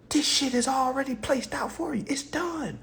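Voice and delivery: whispered aside; hushed, secretive whisper. Real, not acted. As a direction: drop to a whisper to let them in.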